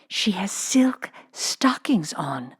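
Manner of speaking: slow, secretive schoolgirl whisper; hushed and slow, voice unvoiced. A narrator's reading. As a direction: breathe it to a friend behind a book. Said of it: "whispered Jessie".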